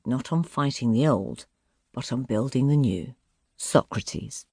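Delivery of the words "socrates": breathy unvoiced name; whisper. A narrator's reading. Quote attribution, whispered name.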